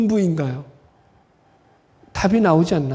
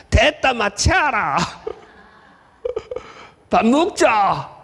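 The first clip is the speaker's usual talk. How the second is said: slow, heavy Gyeongsang dialect drawl; Gyeongsang accent; slower than usual. Retold or imitated. Preacher mimicking Gyeongsang speakers in a heavy accent. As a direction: put on a thick Gyeongsang accent. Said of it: "액센트가 너무 강해".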